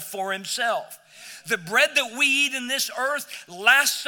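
rising, ringing pulpit proclamation; preaching. Acted. Pastor proclaiming the great I am to his church, in full preaching voice. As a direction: preach it out to the congregation with fire.

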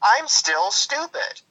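mock dim supporter. Host mocks a Trump voter, slow dopey voice. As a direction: drag it out like a proud fool.

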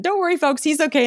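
high-pitched retold anchor reassurance; upbeat on-air reassurance. Anchor to viewers after her co-anchor's fall, upbeat reassurance.

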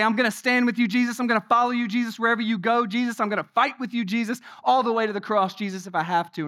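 insistent vow, lightly acted as proud Peter; bold and proud. Peter vowing loyalty to Jesus, bold and proud. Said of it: "most bold and most vocal and most proud".

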